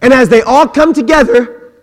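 ordinary talk

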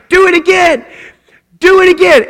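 put-on high, eager little-kid plea; excited child begging. Toddler begging tired dad to throw him again, high and eager.

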